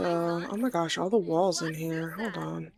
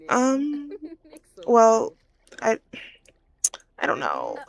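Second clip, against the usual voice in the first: halting, evasive character voice with long pauses; reluctant to tell; 7 semitones higher, 3 dB louder, slower than usual. Acted. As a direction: stall between words, avoiding the answer. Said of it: "she ain't trying to tell their business".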